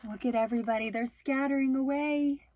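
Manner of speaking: lively read-aloud narration; storytelling to kids. A narrator's reading. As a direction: read it like a bedtime picture book. Reading picture book aloud.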